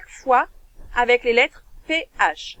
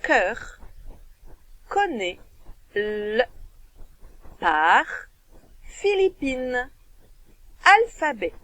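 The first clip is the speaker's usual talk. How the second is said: words read one by one with pauses; teacher reading jumbled words aloud; reading a word list; much slower than usual. Shown as a demonstration. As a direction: read each word clearly for the child. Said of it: "je vais les lire avec toi".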